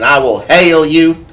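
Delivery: slow, lightly put-on Southern belle drawl; Southern belle accent. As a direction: draw it out with a touch of Southern belle. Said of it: "this Southern Belle type accent".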